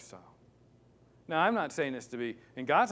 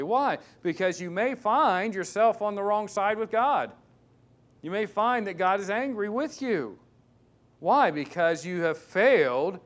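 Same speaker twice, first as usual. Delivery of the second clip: higher and louder, pounding each question; preaching at full force; 6 semitones higher, 5 dB louder than usual. Acted. Preacher warning his church about broken vows, loud and fervent.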